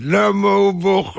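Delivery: high, stretched-out whine; exasperated cry. Acted. Husband approaching crying baby, high exasperated wail.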